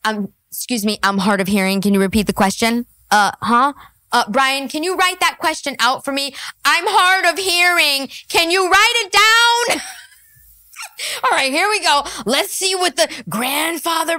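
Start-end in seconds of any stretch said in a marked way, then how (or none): 0.5-2.9 rushed, lower imitation of the guest; hurried mocking impression; quick mock excuse. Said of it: "Whenever the Crucible says something". 3.1-9.8 building louder and higher, playing dumb; hammed-up, rising mock plea; escalating mock excuse. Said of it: "Whenever the Crucible says something".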